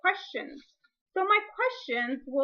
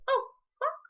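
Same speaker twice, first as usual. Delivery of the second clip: imitating a child. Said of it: "they could say".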